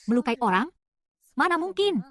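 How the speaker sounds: sharp high gasp of disbelief; can't believe what she just heard; shocked disbelief. Acted. Shocked at news of stabbing.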